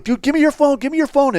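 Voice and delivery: high, insistent repeated demand; retold urgent order. Narrator demanding the passenger's phone, urgent order. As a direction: act out hurriedly ordering someone around.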